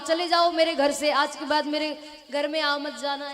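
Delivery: loud shouting out of the house; angry shouting. Acted. Ajamil shouts at the holy men to get out. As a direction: drive them out with angry shouts. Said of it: "बहुत चिल्लाया महात्माओं को".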